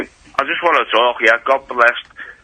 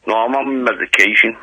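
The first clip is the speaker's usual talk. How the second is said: slurred speech. Real, not acted. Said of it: "You sound a little bit slurry".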